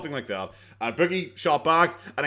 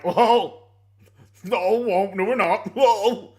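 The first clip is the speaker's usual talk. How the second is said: mock panicky quote; 5 semitones higher, 5 dB louder, much slower than usual. Mocking quote of YouTuber.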